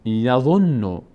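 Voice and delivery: یظنو at normal speed with a held nn; doubled n. Shown as a demonstration. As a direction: say یظنو smoothly, stressing the nn. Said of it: "یک بارم با ضمهٔ خودش". («یظنو» روان با نون مشدد)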